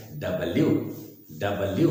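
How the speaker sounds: डब्ल्यू in three syllables, 'da-bal-yoo'; full 'da-bal-yoo'; correct W. Shown as a demonstration. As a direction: start डब्ल्यू low and rise on 'yoo'. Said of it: "ध्यान से सुनेंगे".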